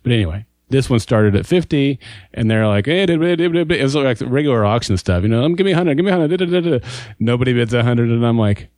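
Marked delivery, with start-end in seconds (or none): 2.9-6.9 auctioneer. Retold or imitated. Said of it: "still doing the auctioneer thing".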